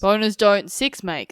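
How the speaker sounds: slow mock Shakespearean delivery; drawn out like an old play. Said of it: "That sounds like, um, Shakespeare".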